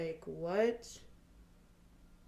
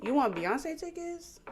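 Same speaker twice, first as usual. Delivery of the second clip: higher, slow mocking question; incredulous; 6 semitones higher than usual. Real, not acted. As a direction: drag it out in disbelief. Repeating the mockery.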